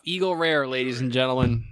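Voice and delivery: loud showman's announcement; mock announcer. Host presents the next pour to listeners, mock announcer.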